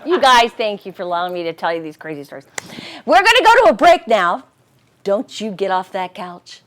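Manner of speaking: lightly played TV hostess; gracious society hostess. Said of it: "in your best hostess voice".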